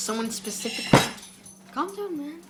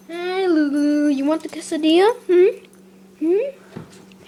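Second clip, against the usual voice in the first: high, louder coaxing of a dog; teasing pet talk; 6 semitones higher, 4 dB louder, slower than usual. Real, not acted. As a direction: lure the dog with rising questions. Tempting the dog with food.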